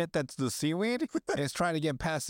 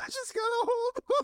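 put-on desperate, very high-pitched pleading. Acting out a man clenching his desk, holding on: imitating a desperate voice. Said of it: "The desperation in his voice".

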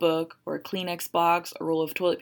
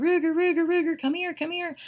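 mock screaming call, very high; 11 semitones higher than usual. Retelling running into the house during a storm, screaming for the dog. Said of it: "I start screaming".

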